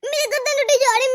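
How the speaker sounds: mimicking her complaint with a laugh; mocking through laughter; laughing mockery. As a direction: laugh while aping her whining. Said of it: "ऊपर से कहती है".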